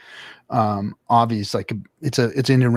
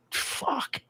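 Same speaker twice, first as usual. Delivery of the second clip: breathy unvoiced whisper of awe; whispered expletive; 13 semitones higher, 13 dB quieter than usual. Real, not acted. Host describes a friend's trophy room with an awed whisper.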